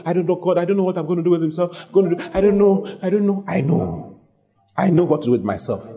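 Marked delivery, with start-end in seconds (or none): 0.0-3.4 mildly fretful mock pleading; troubled, helpless. Troubled believer tells God they don't know, mock fretting. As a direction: imitate someone at a loss, slightly raised voice. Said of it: "Like as though you are in trouble".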